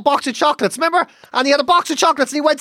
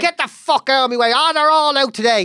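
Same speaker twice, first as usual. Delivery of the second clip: grumbling curses at everyone on the road; mock road rage. Retelling road rage at other drivers, mock angry swearing. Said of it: "I was like".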